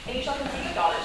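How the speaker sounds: hushed coaxing. Acted. Coaxing the signature.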